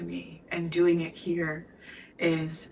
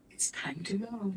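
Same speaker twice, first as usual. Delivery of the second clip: softer, voiceless whisper of intuition; whispered inner voice; 12 dB quieter than usual. Retold or imitated. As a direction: let the inner voice breathe it out. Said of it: "My intuition said".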